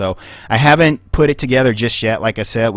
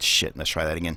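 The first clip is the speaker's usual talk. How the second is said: ordinary talk, nothing marked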